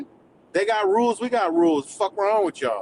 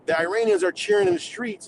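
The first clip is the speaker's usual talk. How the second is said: mocking quote; 7 semitones higher than usual. Mocking MAGA cheering for Iran, in a high sarcastic voice. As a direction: parrot them with a sneering high lilt. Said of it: "And then you said".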